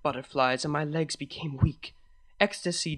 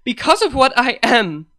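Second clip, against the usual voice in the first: ashamed; 9 semitones higher, 14 dB louder than usual. A narrator's reading. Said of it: "ashamed to have kept her in the dark".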